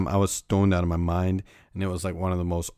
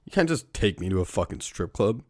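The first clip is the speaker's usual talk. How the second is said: shocked outrage; 2 semitones higher than usual. Retold or imitated. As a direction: squeak it out in disbelief. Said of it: "And I was like".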